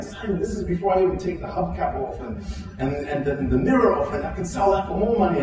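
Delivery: retold rising excitement, pitch climbing towards the end; getting excited. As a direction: imitate someone warming to his own scheme. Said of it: "he started getting excited".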